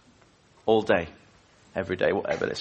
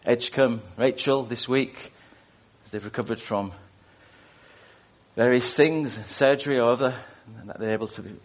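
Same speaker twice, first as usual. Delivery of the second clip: prayer; 3 semitones lower than usual. Acted. Opening prayer before the sermon.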